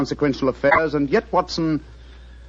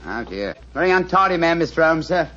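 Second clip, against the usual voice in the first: a lightly voiced humble tradesman; apologetic workman, cap in hand; British workman disguise; 3 semitones higher than usual. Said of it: "a typical example of the British working man".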